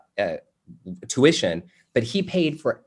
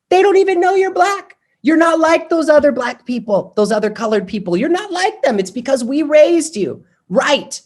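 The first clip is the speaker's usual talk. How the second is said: put-on much higher and louder, bellowing old Italian uncle; Uncle Peter's booming voice; 6 dB louder than usual. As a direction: belt it out like a proud old uncle at the dinner table. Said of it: "literally from the top of his Italian lungs".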